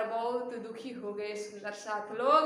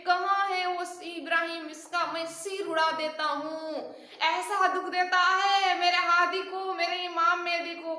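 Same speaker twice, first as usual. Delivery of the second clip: a touch of raised, furious vow; angry outburst; 4 semitones higher than usual. Retold or imitated. Pathan hearing of his master's grief, angry outburst. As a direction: fume at the insult to his master. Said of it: "करके बहुत गुस्सा हो गया".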